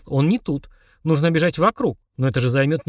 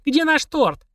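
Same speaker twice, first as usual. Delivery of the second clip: high yell, stress on наш; yelling in chorus; 12 semitones higher, much slower than usual. Acted. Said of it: "хором заорали". (хором заорать)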